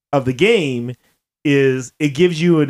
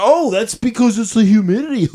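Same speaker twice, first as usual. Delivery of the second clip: small-talk reply; 6 semitones higher than usual. Retold or imitated. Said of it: "And they go".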